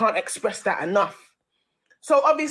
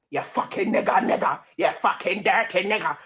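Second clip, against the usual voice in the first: retold slur. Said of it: "he says".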